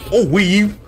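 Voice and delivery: high, loud yelp while dodging; excited shout. Real, not acted. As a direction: shout it out as you dodge. Dodging attack in fight.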